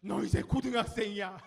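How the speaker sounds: very loud, hammed-up nag; nagging parent. Parent to a middle-school senior, mock nagging. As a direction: blast it out as a mock-scolding parent. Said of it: "무슨 얘기 될까요?".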